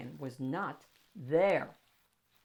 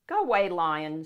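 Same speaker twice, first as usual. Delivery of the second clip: firm call; 9 dB louder than usual. Acted. Librarian shooing lion away.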